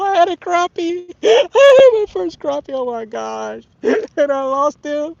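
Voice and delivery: high, loud laughter through the words; laughing in disbelief. Real, not acted. Laughing as he tells viewers he lost it. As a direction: laugh at his own bad luck. Laughing after losing the fish.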